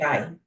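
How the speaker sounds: "Dairai" with a soft, quiet D; correct name pronunciation. Shown as a demonstration. Guest repeating her name for the hosts, correct pronunciation. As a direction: ease gently into the D of "Dairai". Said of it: "a soft D".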